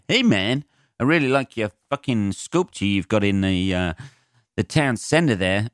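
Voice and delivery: hammed-up friendly comic flattering the town; oily crowd-pleaser buttering up the audience; mock pandering comic. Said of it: "They'll Google every place and go".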